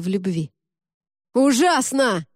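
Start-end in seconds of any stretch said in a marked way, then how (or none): 1.3-2.3 high, loud yell. Acted. Amanda screams the word into Mikhail's mind, loud yell. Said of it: "заорала она в своём карцере".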